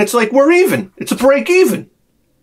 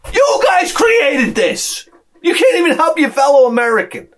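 laughing shout; 7 semitones higher than usual. Acted. Comedian blaming the audience, laughing shout. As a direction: point at them and laugh it out.

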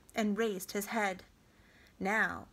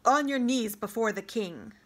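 commanding a slave; 6 dB louder than usual. Acted. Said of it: "as if to a slave".

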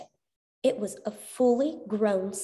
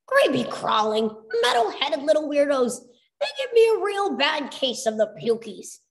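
disgusted shiver; 5 semitones higher than usual. Acted. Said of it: "Chuck shivered".

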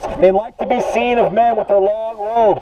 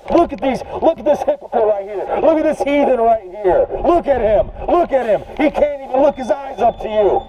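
mocking Pharisee. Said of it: "and you say".

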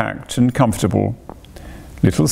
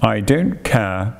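dogged; slower than usual. Acted. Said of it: "said the rat doggedly".

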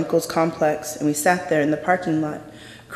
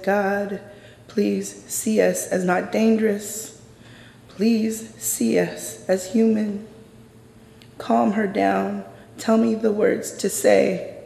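slow, higher, earnest prayer; pleading prayer; 4 semitones higher, slower than usual. Retold or imitated. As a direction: beg God gently to calm her. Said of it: "I actually started praying for the cop".

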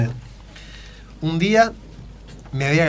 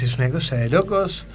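Macri impression. Shown as a demonstration. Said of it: "a Mauricio Macri y decís".

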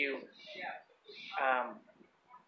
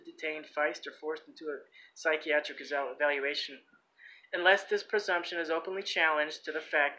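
even read-out of a legal text; reading aloud. Real, not acted. Man reading court presumptions to listeners, read-aloud delivery. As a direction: read the document out steadily, clause by clause.

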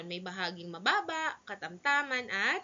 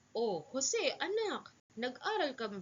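mother Aling Tess. Acted. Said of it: "Sabi ni Aling Tess".

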